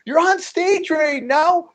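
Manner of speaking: drawn-out, very high imitated disbelief; incredulous Joe Rogan. Joe on the phone to a comic mid-set, incredulous. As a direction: repeat it back slowly in mock amazement. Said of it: "He's like".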